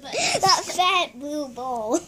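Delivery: slow, giggling; laughing. Real, not acted. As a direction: say it through laughter.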